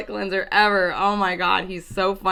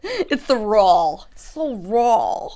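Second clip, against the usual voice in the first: slow Ambi attempt; slower than usual. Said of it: "I can't do Ambi's voice".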